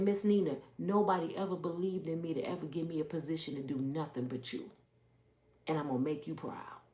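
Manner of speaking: soft, low voicing of a grateful girl; heartfelt gratitude, retold. Grateful girl to her mentor who believed in her, retold softly and sincerely. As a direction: quietly imitate her sincere promise.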